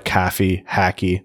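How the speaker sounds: "caffy, hacky" with pronounced short a; Michigan A vowel. Shown as a demonstration. Host trying Michigan vowels after crossing border, pronounced a. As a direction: flatten coffee and hockey into "caffy, hacky". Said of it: "a lot more pronounced, like, a, a vowel sounds".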